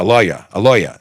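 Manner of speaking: corrected New York "lawyer" as "LOY-uh"; attempted New York accent. Shown as a demonstration. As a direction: say LAWYER with a rounded New York vowel, dropping the r. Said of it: "I'm trying to make my New York thing".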